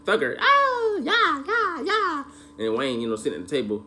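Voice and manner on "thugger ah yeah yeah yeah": high, excited hype-man voice; a lightly mocking sing-song greeting. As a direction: shout it up high like a hyped fan. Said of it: "they're like".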